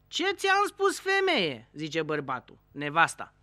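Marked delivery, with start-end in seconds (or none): 0.1-1.7 high and louder, a hammed-up outburst; mock indignant. Husband scolding his wife over the phone, mock loud. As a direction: play the indignant husband big.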